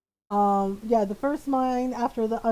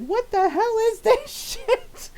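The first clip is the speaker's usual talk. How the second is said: mock swearing; 10 semitones higher than usual. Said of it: "swearing like a sailor".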